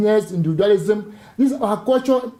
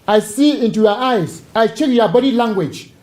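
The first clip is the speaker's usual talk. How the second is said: reading the quote firmly and a bit louder; harsh tone; 3 dB louder than usual. Shown as a demonstration. Speaker reads a psychology quote to the interviewer in a harsh tone. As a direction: press each line hard, like a warning. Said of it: "I'm using a harsh tone".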